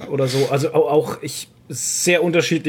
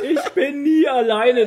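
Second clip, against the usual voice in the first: laughing mock echo; 11 semitones higher, slower than usual. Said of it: "der war schon sehr gut".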